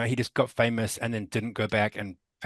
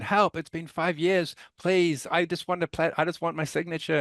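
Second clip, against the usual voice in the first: pleading voice; 7 semitones higher than usual. Retold or imitated. Backers begging on Kickstarter page.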